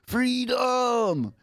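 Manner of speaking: squealed high like an escaped chimp; a joyful monkey yell of freedom, way up high; monkey cry of freedom. Pretend. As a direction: shriek it out like a monkey tasting freedom. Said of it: "The monkey version of it".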